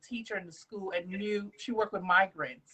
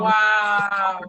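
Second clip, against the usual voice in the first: shouted amazed wow; loud wow; 14 dB louder than usual. Real, not acted. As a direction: blurt it out in amazement. Reacting to the story.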